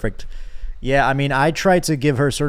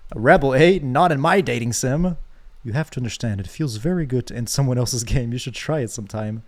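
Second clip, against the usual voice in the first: mock the rebel, then purr; hint of a smug dating sim villain; smug game character. Reads game character reply.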